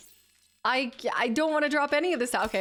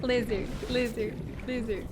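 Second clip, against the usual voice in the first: lizard voice. Retold or imitated. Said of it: "I'm gonna hear that in my dreams".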